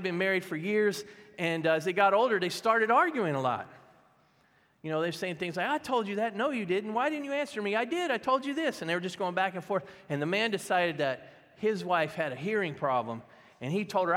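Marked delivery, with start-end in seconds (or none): 5.7-8.8 higher-pitched mock squabble; quick-fire mock indignation, pitched up; bickering couple. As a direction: imitate a petty back-and-forth argument. Old couple bickering in the story.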